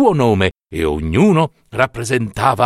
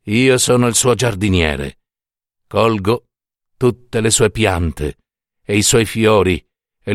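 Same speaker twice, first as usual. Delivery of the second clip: low-pitched, measured figure of Death; solemn Death; 4 semitones lower than usual. Acted. Death describes his work as God's gardener, low and solemn. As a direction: explain it as Death, deep, with long pauses.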